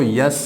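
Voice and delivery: यस said "yes" with a y in front; the wrong way, यस; wrong y-glide. Shown as a demonstration. Teacher warning the class against this sound. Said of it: "यस अगर pronounce करते हैं तो ये wrong होगा".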